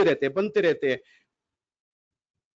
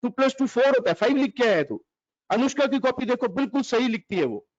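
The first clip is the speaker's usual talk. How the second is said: mock-angry dad scolding the child; father scolding; 3 semitones higher than usual. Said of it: "पापा ने notebook देखी".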